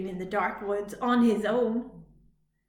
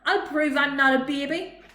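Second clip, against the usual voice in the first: determined; 4 semitones higher, 7 dB louder than usual. A narrator's reading. Robot vows to be brave.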